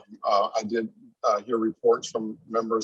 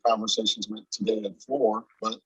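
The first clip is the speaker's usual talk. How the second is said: inside a submarine. Real, not acted. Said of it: "you sound like you're in a submarine right now".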